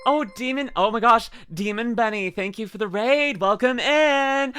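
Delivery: high, bright welcome, drawn out; excited greeting. Real, not acted.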